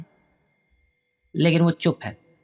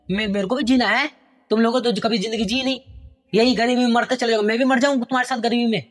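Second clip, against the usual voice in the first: angry son; 3 semitones higher than usual. Acted. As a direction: rant about being stuck at home. Son yelling at father. (पिता पर भड़कता बेटा)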